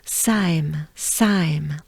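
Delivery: "Saim" slow and falling, for repeating; final syllable demo. Shown as a demonstration. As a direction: take a breath, then draw out "Saim". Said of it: "Let's do it together".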